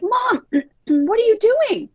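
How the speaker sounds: put-on high, slow whine of upset boys; whiny crying kids.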